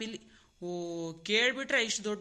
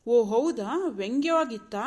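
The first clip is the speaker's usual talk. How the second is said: loud sarcastic feigned realisation; mock surprise; 5 dB louder, slower than usual. Husband feigns surprise at being called sarcastic, mocking. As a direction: throw her complaint back at her.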